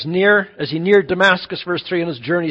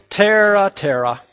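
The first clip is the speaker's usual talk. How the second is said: a touch louder, warning call of the name; stern parent call; 3 dB louder than usual. Retold or imitated. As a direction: call the kid's name like trouble's coming. Parent calling unruly daughter.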